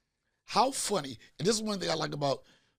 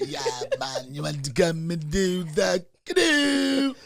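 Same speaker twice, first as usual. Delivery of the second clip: laughing mock Jamaican accent, slow; a light Jamaican accent, drawn out; Jamaican Bill Cosby; 4 dB louder than usual. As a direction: Jamaican accent offered to canoe passengers, playful and slow. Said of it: "A Jamaican Bill Cosby".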